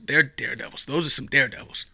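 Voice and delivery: dry sarcastic emphasis. Acted. Mocking the news wording with sarcasm. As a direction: say it with heavy irony. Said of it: "my sarcastic tone".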